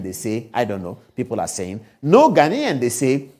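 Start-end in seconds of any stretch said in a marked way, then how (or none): 2.0-2.8 louder, punched "no Ghanaian"; emphatic repeat. Shown as a demonstration. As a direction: hit "no" hard on the repeat. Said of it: "No Ghanaian (repeated)".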